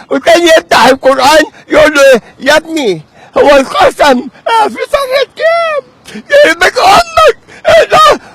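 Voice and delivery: indignant rant jumping into a high shout; outraged, voice shooting up high; exasperated tirade, stretching the words; worked up. Real, not acted. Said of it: "تقوم تعصب نفسك".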